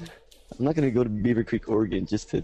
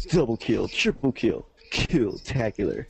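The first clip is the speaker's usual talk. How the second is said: deadpan announcer read; 3 semitones lower, slower than usual. Shown as a demonstration. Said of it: "you could just say it".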